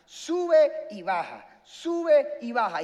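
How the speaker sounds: stretched, punchy "sube", falling "baja"; slow see-saw delivery; slow emphatic repetition. Real, not acted. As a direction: draw out each up and down. Repeats phrase to illustrate ups and downs.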